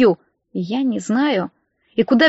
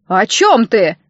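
sharp; 4 dB louder, slower than usual. A narrator's reading. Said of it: "резко переспросил он".

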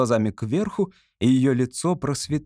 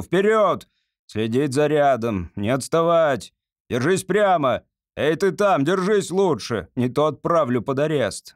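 corporal drilling recruits. Acted. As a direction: shout orders at the ranks. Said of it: "выпрямляется и кричит".

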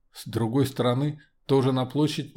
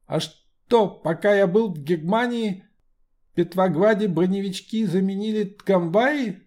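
Lenin voice with burr; 8 semitones higher, 4 dB louder than usual. Acted. Lenin speaks again.

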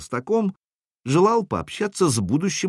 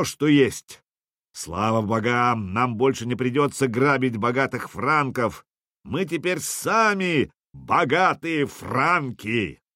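viking; 2 semitones higher, slower than usual. Acted. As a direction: bellow out to the whole camp. Drunk viking chief calls for wine.

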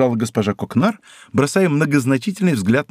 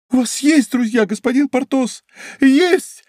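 much higher, building to a loud cry on Есть; impulsive exclamation; 12 semitones higher, 3 dB louder than usual. A narrator's reading. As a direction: burst out in a sudden rush. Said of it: "воскликнула прокурорша в каком-то порыве". (порывисто, всё выше и громче)

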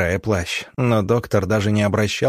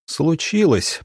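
higher, indignant exclamation; indignant near-shout; 7 semitones higher, slower than usual. A narrator's reading. Doctor answering the teacher's question, indignant. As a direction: throw the word back, pitch jumping. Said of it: "почти крикнул он возмущённый".

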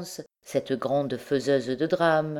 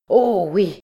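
loud, higher exclamation of delight; excited cry; 4 semitones higher, 6 dB louder than usual. A narrator's reading. The king sees the fire and cries out in delight. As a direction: cry out with glee. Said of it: "s'écria-t-il en battant des mains".

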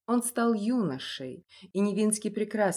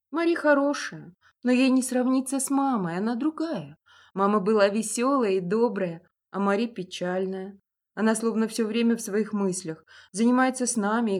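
put-on boy voice; 2 semitones higher, 5 dB louder than usual. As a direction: speak as a boy. Boy talks about mother.

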